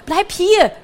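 high, loud urgent shout; shouted order. A narrator's reading. Pikandu stopping Bertram running to the fire, urgent shout. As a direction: call someone back sharply. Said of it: "rief Pikandu".

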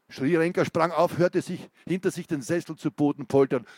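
gripping reading of an interrogation scene; story narration. A narrator's reading. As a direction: read it like a tense crime novel. Author reads thriller interrogation scene.

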